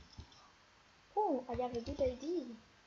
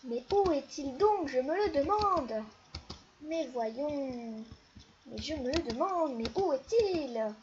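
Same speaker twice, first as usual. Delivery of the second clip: louder theatrical wondering; loud mock-dramatic detective musing; 5 dB louder than usual. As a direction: ham up the searching sleuth.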